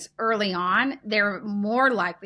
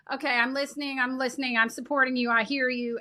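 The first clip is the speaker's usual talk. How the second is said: soothing parent; 2 semitones higher than usual. Retold or imitated. Parent soothing upset Joe, gently reassuring. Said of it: "you go".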